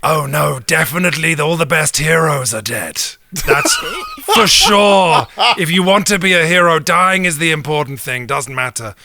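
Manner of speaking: Death voice. Acted. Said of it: "Death says".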